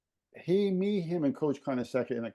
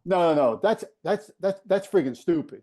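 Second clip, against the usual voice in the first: put-on louder, higher incredulous old coach; exasperated coach; 5 semitones higher, 5 dB louder than usual. Coach hearing players explain Facebook, loud indignant disbelief. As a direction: throw up your hands at the idea. Coach outraged at social media.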